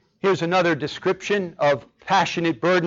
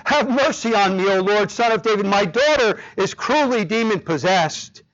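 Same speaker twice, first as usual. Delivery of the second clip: higher-pitched pleading cry; 4 semitones higher than usual. Acted. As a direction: read it as a mother's plea, voice raised. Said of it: "began to cry out".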